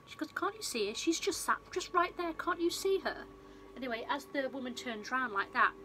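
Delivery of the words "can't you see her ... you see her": high-pitched, agitated retelling; mock insistent pleading. Retold mad woman insisting to doctor.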